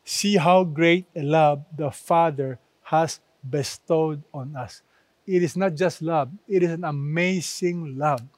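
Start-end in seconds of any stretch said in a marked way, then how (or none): 0.0-4.8 emphatic reading. Shown as a demonstration. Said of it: "The Bible is very emphatic".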